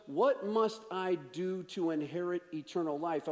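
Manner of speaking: "I" given the emphasis in the question; stress on I. Retold or imitated. Expert in the law asking Jesus, stress on "I". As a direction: lean on "I" in "must I do". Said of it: "notice where the emphasis is".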